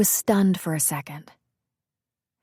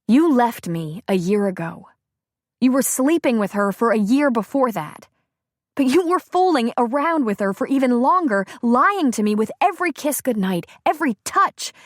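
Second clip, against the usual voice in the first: angry accusation; 5 semitones higher than usual. Acted. Bree accusing ex-husband.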